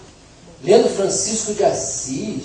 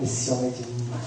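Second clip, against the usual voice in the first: imitating the wife; 7 semitones lower, 8 dB quieter than usual.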